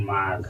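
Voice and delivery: ᱢᱟᱜᱽ as one syllable, "maag"; pronunciation demo. Shown as a demonstration. Teacher reading out the spelled word for learners, ᱢᱟᱜᱽ said as "maag". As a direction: say ᱢᱟᱜᱽ with a long a closing on g. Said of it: "ᱱᱚᱣᱟ ᱫᱚ ᱢᱟᱜᱽ ᱩᱪᱪᱟᱨᱚᱱ".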